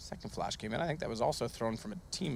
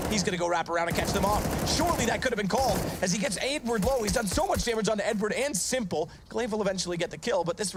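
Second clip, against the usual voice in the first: excited; 5 semitones higher than usual. Real, not acted. Round climax, caster builds hype.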